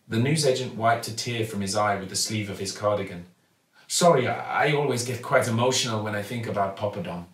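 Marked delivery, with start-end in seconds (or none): 3.9-7.3 kindly shopkeeper. Acted. Raj gets emotional.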